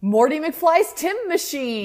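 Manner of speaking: slow, high, drawn-out "Tim Machine"; mock title read. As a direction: savor the misspelled "Tim". Mocking the misspelled title.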